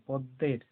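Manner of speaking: পদ্মের with a doubled দ and no ম sound; stressed দ, silent ম. Shown as a demonstration. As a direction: press the দ in পদ্মের, dropping the ম. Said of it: "দটাকে জোর দিয়ে বলা হচ্ছে".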